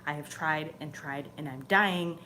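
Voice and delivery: a hint of earnest pleading prayer. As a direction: ask the angel for help, gently begging. Prays to archangel for help.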